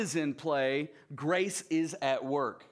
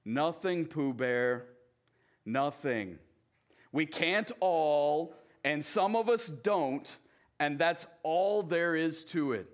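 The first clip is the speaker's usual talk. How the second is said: gloomy Eeyore. Acted. Eeyore's reply in read story.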